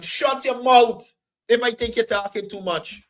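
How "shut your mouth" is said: firm shush. Shown as a demonstration. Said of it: "Just like I would say to Indian".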